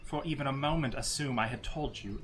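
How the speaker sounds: put-on measured, grave old cleric; solemn priestess voice. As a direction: speak like a dignified holy woman handing over relics. GM as Ilya defends her secrets.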